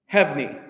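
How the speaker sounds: "Hevni" in just two syllables. Shown as a demonstration. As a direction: say "Hevni" as hev-ni, no middle vowel. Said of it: "two syllables".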